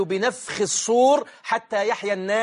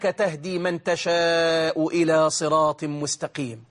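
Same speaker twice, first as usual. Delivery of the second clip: supplication recitation. Acted. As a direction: recite the du'a solemnly, stretching the final phrase. (تلاوة دعاء بتأنٍّ مع مدّ الخاتمة)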